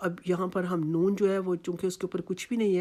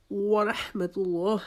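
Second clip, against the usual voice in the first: whispered recitation; much slower than usual. Shown as a demonstration. Recitation example.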